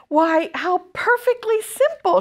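high, bright spider voice; lightly voiced wise spider; Charlotte's voice. A narrator's reading. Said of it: "she said to herself".

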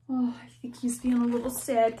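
whispered sympathy for the ant. Acted. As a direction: hush it like sharing sadness. Naming ant's sadness to kids.

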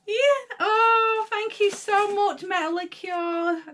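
real happy tears; tearful thanks. Real, not acted. Emotional thanks for gift.

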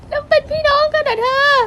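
high stunned question; shocked disbelief. Acted. (ถามอย่างตะลึง)

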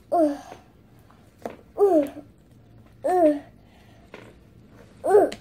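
short separate straining grunts; effort grunts. Pretend. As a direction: grunt while pulling free of slime. Struggling to get out of slime.

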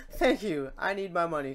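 a hint of a grateful greedy Cloud, lightly voiced; Cloud wanting his money. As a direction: say it like you really want the cash back. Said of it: "Cloud's gonna say".

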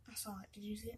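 hushed, startled whisper. Real, not acted. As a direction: whisper it so the spirit won't hear. Whispering at the moving planchette.

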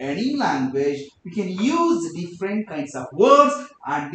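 slow demonstration with "words" stressed and "or" dragged out; exaggerated stress and intonation. Shown as a demonstration. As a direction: swing the pitch up on "English", down on "any language". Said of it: "ಕೆಲವು stress, ಇಂಟೋನೇಷನ್ಸ್, pause, rhyme, rhythms ಗಳನ್ನ use ಮಾಡಿದೆ".

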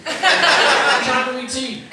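hammed-up slogan for a tea commercial; slow ad slogan. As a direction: stretch the slogan out slowly like a tea ad. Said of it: "here we go".

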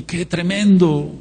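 imitating a Chilean brother's Chilean accent. Preacher quoting a Chilean brother to the congregation, light Chilean accent. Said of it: "me decía un hermano de Chile".

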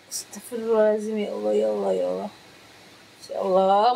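mock startled. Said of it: "kayak kaget gitu loh".

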